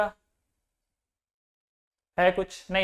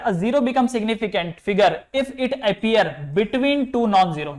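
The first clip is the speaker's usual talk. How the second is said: slow dictation; much slower than usual. Shown as a demonstration. Reads rule aloud for notes.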